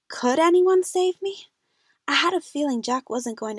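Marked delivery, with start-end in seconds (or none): 0.1-1.5 rising desperate plea, slowed. Acted. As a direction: cry out in despair.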